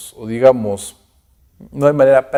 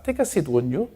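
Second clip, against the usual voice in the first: formal polite invitation; 5 semitones higher, 7 dB quieter than usual. Shown as a demonstration. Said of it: "una invitación formal, educada".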